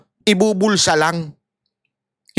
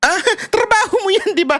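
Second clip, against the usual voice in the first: mocking policeman; 13 semitones higher than usual. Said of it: "Sabi ng mamang pulis".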